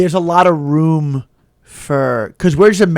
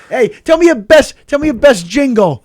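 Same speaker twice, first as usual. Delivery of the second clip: mock taunt; 8 semitones higher than usual. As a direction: needle him for his jingle. Taunting Aruba Joe.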